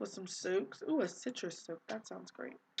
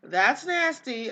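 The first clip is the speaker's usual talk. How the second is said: a louder, slower repeat of the disgust; 3 semitones higher, 5 dB louder, slower than usual. Real, not acted. Vlogger disgusted at her Sim eating old food, louder and slowly. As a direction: tell the viewers the leftovers are gross, louder and slowly. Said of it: "eat your B L T".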